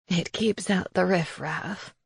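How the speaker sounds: soft, slow crone voice; a quiet, slow witch reply; old witch voice. Acted. Witch Raisa answers.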